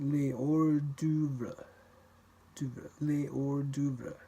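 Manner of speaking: les hors d'oeuvre slowly, no liaison; lentement, sans liaison; slow demo. Shown as a demonstration.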